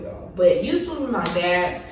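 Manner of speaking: quiet, choked-up voice, fighting tears; fading to almost nothing as the tears come; real hurt, voice dropping away on missing birthday gifts; holding back tears. Real, not acted. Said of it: "I'm trying not to get emotional".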